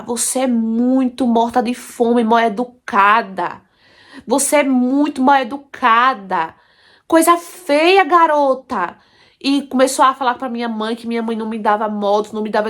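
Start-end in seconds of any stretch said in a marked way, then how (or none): 0.0-9.0 aunt yelling. Retold or imitated. Aunt scolding her niece over food, mock yell. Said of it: "A minha tia começou a gritar".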